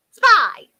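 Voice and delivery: high, very loud mishearing; half-deaf fairy. A narrator's reading. Half-deaf fairy mishearing the wicked fairy, half-deaf. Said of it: "who was half deaf".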